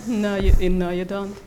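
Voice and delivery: usual speaking voice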